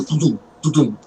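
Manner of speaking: spoken knock-knock sound effect; quick mouthed knocking noise; imitated door knock. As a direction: mimic two double knocks on a door.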